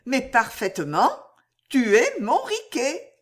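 plucky, rising affirmation; bold frankness. Acted. Riquette claiming Riquet despite the danger, boldly frank. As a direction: declare it proudly, lifting at the end. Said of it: "affirma-t-elle avec sa jolie crânerie de franchise".

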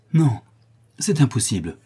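high anguished outcry; cry out. Acted. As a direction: cry it out in disbelief. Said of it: "s'écria le prince".

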